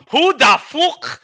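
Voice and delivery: high, loud, baffled who is this; stunned disbelief. Retold or imitated. Streamer blurting at an unknown pick, high and loud. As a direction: blurt it out in shock. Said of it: "I was like".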